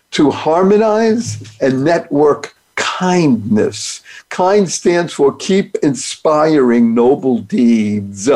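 slow, spelling out each word; slow deliberate. Shown as a demonstration. Host slowly unpacks his thank acronym. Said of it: "acronym reading".

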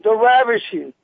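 slow, drawn-out boxing ring intro; mock ring announcer. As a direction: stretch each word like announcing a fighter.

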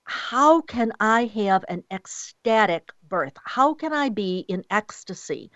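unhurried and softening toward the end. Shown as a demonstration. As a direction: draw it out with weight on each phrase. Models the question women should ask.

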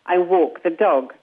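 slow British English reading; British accent. Shown as a demonstration. A coach shows the British version of the phrase. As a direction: round it out the British way. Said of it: "And in English, in British, it's".

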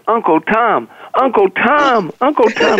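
playful mock yell of a nickname across a buffet; retold calling out. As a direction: call the name out, climbing in pitch with each repeat. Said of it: "She's screaming across the room".

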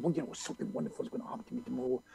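very soft, fast throwaway delivery; embarrassed mumbled recital. Retold or imitated. Told to show his friend, embarrassed quiet recital. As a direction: rush it quietly, wishing it were over.

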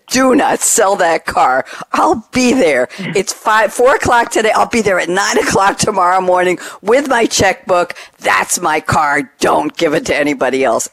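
emphatic buyer staking a claim; retold insistence. Buyer phoning dealer to hold the car, insistent.

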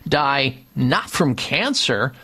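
upbeat sponsor pitch, steady and polished; radio ad read. Acted. Radio host reading a sponsor ad to listeners, polished ad read. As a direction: sell it like a paid spot on air.

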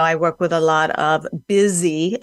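deliberate emphasis on "busy"; stress on busy. Real, not acted. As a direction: lean on the word "busy". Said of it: "emphasize the word busy".

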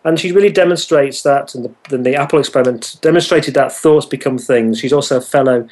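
rushed, barely pausing reading; all in one breath. Shown as a demonstration. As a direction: race through the list without breathing. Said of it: "I'm out of breath".

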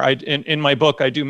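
normal talking voice

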